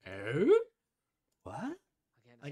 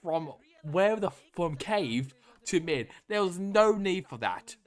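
real furious shouting, much higher and louder; exasperated yelling at a pointless mistake; angry rant; 9 semitones higher, 9 dB louder than usual. Real, not acted. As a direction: tear into the player's rotation at full volume. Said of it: "I'm getting angry".

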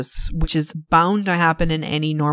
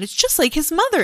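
put-on tipsy old father; 10 semitones higher than usual. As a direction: insist again like a maudlin old father. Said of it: "He's like".

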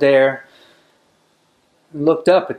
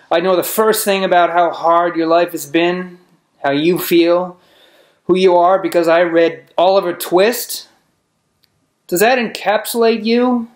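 raised pitch, pressing rhetorical questions; pointed challenge; 5 semitones higher than usual. Acted. Man confronting an orphan who judged him, pointed challenge. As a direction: challenge them, climbing to a high final question.

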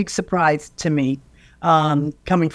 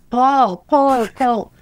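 calling out; 5 semitones higher, 3 dB louder, much slower than usual. Retold or imitated. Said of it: "he's yelling".

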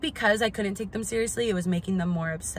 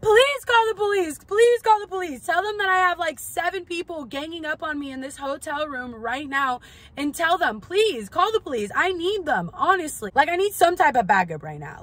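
much higher, louder sarcastic plea; retold defiant shouting; 8 semitones higher, 4 dB louder than usual. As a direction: dare her to call the police. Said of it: "And I'm like".

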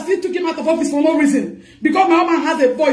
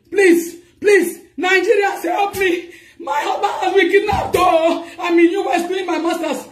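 desperate pleading cry. Real, not acted. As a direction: cry out to the public for rescue. Wife pleading for kidnapped husband.

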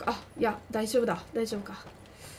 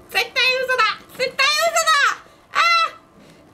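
yelling; 11 semitones higher, 6 dB louder than usual. Real, not acted. Refuses enemy's plea, yells.

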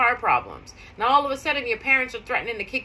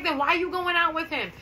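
incredulous question; 6 semitones higher than usual. Retold or imitated. Friend questions bad date plan.

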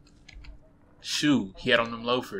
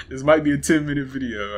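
scared horror game streamer; 3 semitones higher, 10 dB louder than usual. Real, not acted. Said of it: "I talk when I'm nervous".

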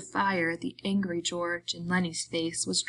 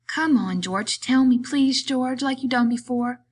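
high, eager begging; pleading; 7 semitones higher, 7 dB louder than usual. A narrator's reading. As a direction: beg like a child for a story. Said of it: "Lenny pleads".

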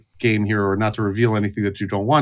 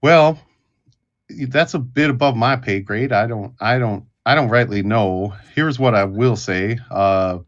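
put-on wary old Cornelius; 3 semitones lower than usual. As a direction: hedge every word like a cagey old drunk. GM voices Cornelius.

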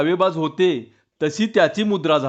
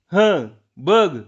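slow eerie call; 3 semitones higher, much slower than usual. Acted. Hidden prankster in dark shrine.

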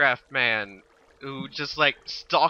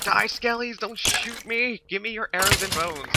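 tag; 8 semitones higher than usual. Pretend. Mock battle cry at game skeletons.

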